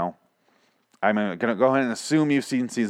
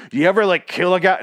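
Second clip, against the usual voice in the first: higher, louder hammed-up question; imitating a wildly bizarre patient; mock crazy patient; 8 semitones higher, 6 dB louder than usual. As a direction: pitch it up like an unhinged client. Mocks an over-the-top therapy patient.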